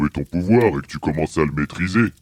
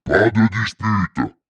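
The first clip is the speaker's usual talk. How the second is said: slow, raised monster-dad command; papa autoritaire; 5 semitones higher, slower than usual. Acted. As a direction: stop the squabble firmly, stretching the words. Papa monstre arrête la querelle. (ordre paternel lent et appuyé)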